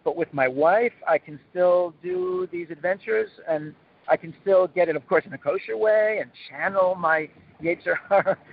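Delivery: hammed-up guy haggling for conditions; mock backpedaling. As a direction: stall like someone caught off guard. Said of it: "the guy would say".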